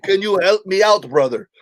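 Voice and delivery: imitated Caribbean accent. Waiter asking the comic for help, Caribbean accent. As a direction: plead in a put-on Caribbean lilt. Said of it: "this thick Caribbean accent".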